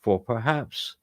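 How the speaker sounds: slow, sinister Sith lord intoning scripture; Darth Sidious. Acted. Host reading ancient verses as requested, Sith lord voice. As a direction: draw out each phrase like an evil emperor. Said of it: "that should be Darth Sidious".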